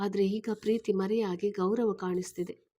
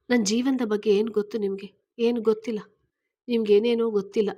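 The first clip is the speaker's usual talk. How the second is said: louder, rushing protest; upset outburst; 5 dB louder, faster than usual. Acted. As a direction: push back hard, words tumbling out faster. Swara angrily rejects Rahul. (ಸಿಟ್ಟಿನಿಂದ ಜೋರಾಗಿ, ವೇಗವಾಗಿ)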